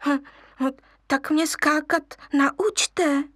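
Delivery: wheedling, pleading cub voice; coaxing. Acted. Lion cub begging the monkeys to teach him. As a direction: sweet-talk them into it. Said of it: "loudil lvíček".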